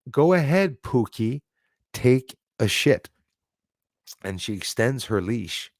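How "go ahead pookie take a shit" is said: slow down on the last words of a mock coaxing; mimicked dog owner. Woman urging her dog on the lawn, lightly mimicked coaxing. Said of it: "And she goes".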